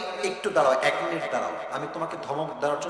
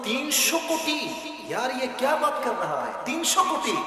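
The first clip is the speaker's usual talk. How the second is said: high-pitched incredulous retort; retold disbelief, pitched up; mock disbelief; 8 semitones higher than usual. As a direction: act astonished at the figure. Acts out own disbelief at price.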